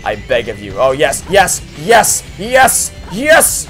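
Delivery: normal talking voice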